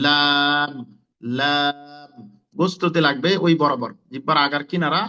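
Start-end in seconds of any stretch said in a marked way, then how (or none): 0.1-2.3 লাম drawn out with a held vowel; লাম articulation demo. Shown as a demonstration. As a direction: say লাম slowly, tongue edge against the gum. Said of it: "তখন লাম উচ্চারণ হবে".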